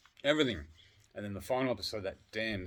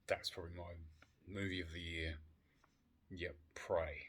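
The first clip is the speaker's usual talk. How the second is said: whisper; 3 semitones lower, 9 dB quieter than usual. Real, not acted. Hushed aside about favourite movie.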